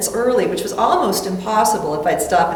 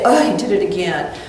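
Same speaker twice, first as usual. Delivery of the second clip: scolding; 4 semitones lower, faster than usual. Shown as a demonstration. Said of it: "A little softer, isn't it? Instead of".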